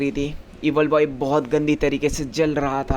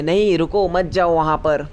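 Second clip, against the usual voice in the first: a raised mock call to stop; 3 dB louder than usual. Allum calls after his running friend, mildly shouting. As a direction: shout after him, half-acted. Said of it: "पीछे से चिल्ला के बोलता है".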